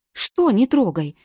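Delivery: loud, slow, high exclamation; exclaiming. A narrator's reading. Morgen exclaiming back at Galka, loud. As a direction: fling the question back in disbelief. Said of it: "воскликнувшая Морген".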